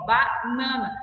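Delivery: "banana" slowly split as "ba-nana", A and N both sounded; syllables separated. Shown as a demonstration. Teacher showing separate sounds, "banana" split slowly into "ba-nana". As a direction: break "banana" after the first syllable. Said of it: "pronuncio o som do A e pronuncio o som do N".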